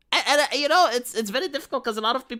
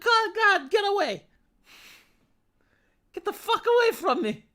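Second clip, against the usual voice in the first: mock panicked; 14 semitones higher, 4 dB louder than usual. Acting his panicked reaction to fan.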